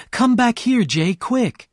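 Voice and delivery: high, loud urgent call. A narrator's reading. Daisy calling Gatsby to the window, loudly. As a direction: call him over across the room. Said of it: "Daisy suddenly cried out".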